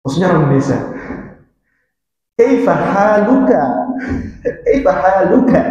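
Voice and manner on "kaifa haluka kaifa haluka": non-Arab pronunciation. Retold or imitated. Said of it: "itu non Arab pasti".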